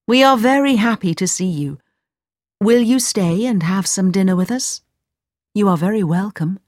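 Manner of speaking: lightly voiced, gracious mother; welcoming mother. Mother asks the guest to dinner, lightly voiced welcome. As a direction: invite him in hospitably.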